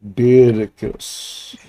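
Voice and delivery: For I am Beardicus, in a lightly voiced Scottish hero accent, very slow at the end. Presenting the drawn Beardicus to the chat, mock Scottish proclamation. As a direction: proclaim it like a pint-sized Scottish warrior. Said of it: "And he's got a Scottish accent".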